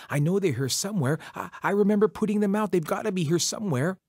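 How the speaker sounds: hurried worried search, words tumbling out; frantic searching. Acted. Coyote searches for his eyes.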